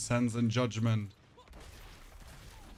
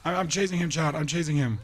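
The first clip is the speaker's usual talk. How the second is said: excited chasing; 4 semitones higher, 3 dB louder, faster than usual. Real, not acted.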